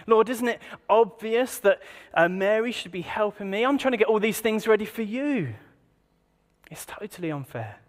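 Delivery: a mild whiny plea for fairness; indignant Martha. Retold or imitated. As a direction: lightly act Martha's grievance. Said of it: "Martha voiced again, paraphrased".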